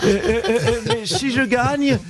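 Marine Le Pen impression. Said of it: "Marine Le Pen, bonjour".

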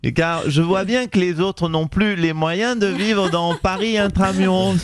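a hint of a snobbish Paris mayor talking down; Anne Hidalgo impression. Mayor answering the radio host, mildly haughty. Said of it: "Bonjour Anne Hidalgo".

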